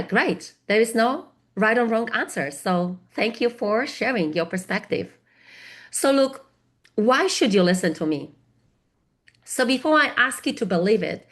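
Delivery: usual speaking voice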